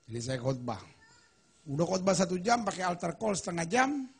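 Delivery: ordinary talk, nothing marked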